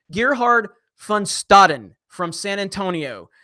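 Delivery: slow, deliberate Gerhard Van Staden; careful pronunciation. Real, not acted. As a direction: spell the name out slowly and carefully. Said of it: "I'm sorry".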